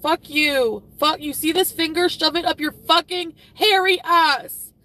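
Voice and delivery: loud, high, real angry yelling; furious shout. Real, not acted. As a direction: tell him off at full volume, slowing at the end. Cursing out a channel in anger.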